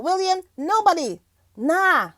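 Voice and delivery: a hint of the singer's dismissive answer. Host quoting the singer about William's visit, lightly imitated dismissal. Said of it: "that's what Beanie said".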